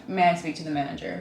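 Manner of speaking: entitled customer demanding the manager; Karen voice. Pretend. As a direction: play the pushy Karen. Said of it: "I'm gonna be a Karen".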